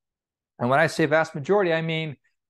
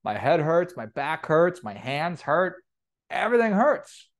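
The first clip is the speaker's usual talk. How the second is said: grumbling worker; 5 semitones higher than usual. Acted. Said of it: "It's like".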